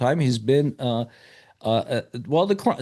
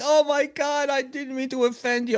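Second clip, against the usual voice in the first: very high, aghast, horrified tone; 12 semitones higher than usual. Retelling a woman's reaction after she mistook him for someone, imitating a horrified woman. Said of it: "And she's horrified".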